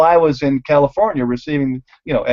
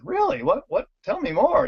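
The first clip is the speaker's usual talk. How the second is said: mock amazement; 4 dB quieter than usual. Mock-eager reply to the story.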